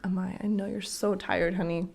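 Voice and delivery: put-on calm a tired little girl; soothing. Mom gently soothing her tired daughter.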